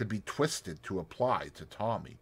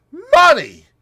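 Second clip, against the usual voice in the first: Money! shouted higher and louder; louder disgusted shout; 17 dB louder than usual. Acted. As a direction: hurl Money! at her even harder. Boris louder repeat.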